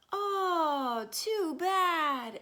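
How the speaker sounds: high, loud sing-song neighbours; neighbours' voice. A narrator's reading. Neighbours on the street tut at the orange splot. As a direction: pitch it up like the gossiping street. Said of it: "everyone said".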